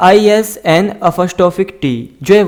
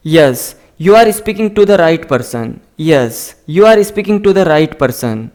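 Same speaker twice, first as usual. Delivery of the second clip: slow, careful dictation of each word; slow model reading; 3 semitones lower, much slower than usual. Shown as a demonstration. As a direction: read it out slowly for learners to copy. Teacher slowly models English sentences. (धीमी, साफ़ पढ़ाने वाली आवाज़)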